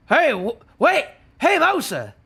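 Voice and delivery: high, loud acted yell. Reader voicing a character calling after Mosa, yelling. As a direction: call out urgently to stop someone. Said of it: "And now he's yelling".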